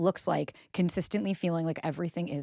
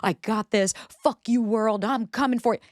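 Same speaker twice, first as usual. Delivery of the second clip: mock triumph; 4 semitones higher than usual. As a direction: crow it like you've already won. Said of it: "you're gonna be like".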